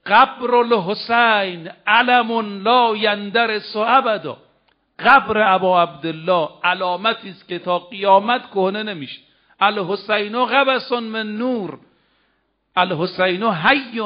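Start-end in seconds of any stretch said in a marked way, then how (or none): 0.0-4.4 slow solemn quote. Acted. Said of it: "میگه". 9.6-14.0 slow solemn quote. Acted. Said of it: "میگه".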